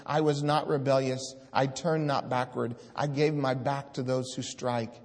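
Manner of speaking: declaiming God's words from the pulpit; scripture proclaimed. Acted. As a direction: thunder the prophet's words to the congregation. Reads verse five loudly.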